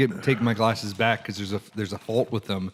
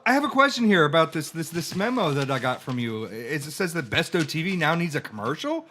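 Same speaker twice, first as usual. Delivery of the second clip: high put-on voice; 3 semitones higher than usual. Skit employee asks about memo.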